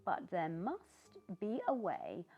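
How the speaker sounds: high, bright-hearted pumpkin voice; a cheerful pumpkin greeting everyone; cheery pumpkin. Acted. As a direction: play a jolly friendly pumpkin. Pumpkin determined.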